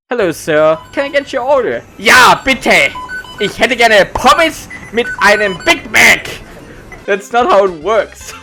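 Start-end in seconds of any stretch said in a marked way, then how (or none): 0.1-1.8 bright polite server voice; cheerful fast-food clerk; polite cashier. Pretend. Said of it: "do you think we just... yell". 2.0-6.3 louder customer ordering in German; loud but friendly order. Pretend. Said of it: "just yell at each other?".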